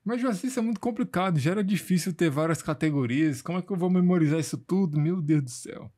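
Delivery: student complaining to teacher Joaci, fast and high-pitched; mock overwhelmed student. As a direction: rush it out like a swamped learner pleading. Imagined student objecting to teacher.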